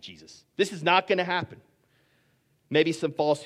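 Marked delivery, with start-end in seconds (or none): 0.0-1.6 fast, firm acted protest; vehement refusal. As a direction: rule it out as an indignant disciple. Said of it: "Peter is vehemently saying".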